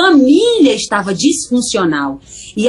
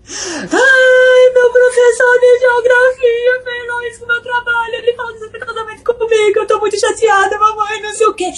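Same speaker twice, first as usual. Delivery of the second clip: put-on high, tearful complaining girl; half-crying daughter pouring out her hurt; upset daughter; 13 semitones higher than usual. Daughter tells mother the geography teacher disrespected her, tearful and high.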